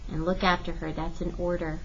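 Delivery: soft, subdued command; whispered order. A narrator's reading. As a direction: murmur it as a quiet order. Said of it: "David whispered to me".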